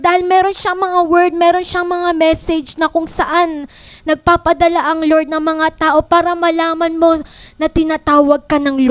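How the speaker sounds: preaching. Acted. Preacher urging the church to answer God's call, fervent. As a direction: press the call home to the congregation.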